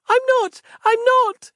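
put-on a frightened girl insisting; shrieked childish denial; girl crying out. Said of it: "cried the girl".

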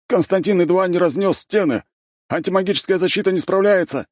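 high, loud panicked calling out; yelled alarm. A narrator's reading. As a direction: bark out the alarm to the bosses. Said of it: "гаркнули они".

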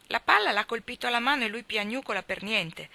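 mild contempt, dismissive; scornful. Acted. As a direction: sneer it at the crybaby. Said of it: "rispose Jack sprezzante".

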